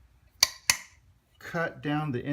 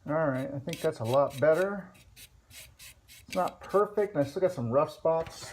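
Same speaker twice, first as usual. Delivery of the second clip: muffled behind a face mask; through face mask; 3 semitones higher than usual. Real, not acted. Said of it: "I'm talking through the mask".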